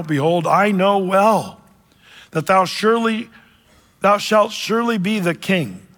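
preacher reading Saul's confession; scripture reading. Acted. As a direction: read the verses like holy text. Reads scripture aloud.

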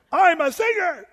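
loud, high, hammed-up wannabe singer; mock contestant. Preacher mocking an Idol hopeful, loud hammed-up brag. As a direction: belt it like a deluded contestant.

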